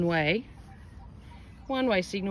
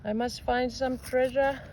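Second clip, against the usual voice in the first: silly odd voice; 5 semitones higher than usual. Acted. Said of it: "Oh my God, what is that voice?".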